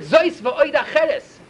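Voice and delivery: spelled out very slowly, word by word; slow inscription reading. Shown as a demonstration. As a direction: read the carved words out slowly and deliberately.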